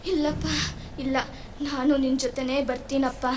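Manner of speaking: barely able to speak for grief; mother pleading quietly to die with him; grieving softly. Acted. Mother's broken-hearted farewell.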